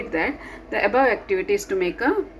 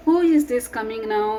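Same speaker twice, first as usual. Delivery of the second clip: curious question; 5 semitones higher, 3 dB louder, faster than usual. Acted. Storybook question, read brightly.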